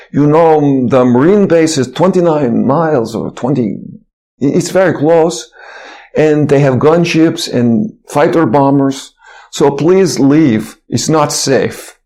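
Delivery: slow, lightly imitated Russian accent, warning; a touch of Russian accent, slow and earnest. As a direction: imitate a Russian man urging them to leave, slowing down, with a mild Russian accent. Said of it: "in his Russian accent".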